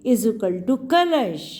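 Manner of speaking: very slow, landing firmly on कलश; teacher slowly completing कलश for the class; slow drawn-out answer. Shown as a demonstration. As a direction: draw out the sum and land on कलश. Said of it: "स्वर हटा दो".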